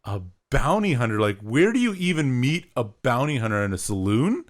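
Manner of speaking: retold baffled disbelief; mock-incredulous questions with swooping stresses; taken aback. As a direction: replay your bewilderment at something absurd. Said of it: "so far taken aback".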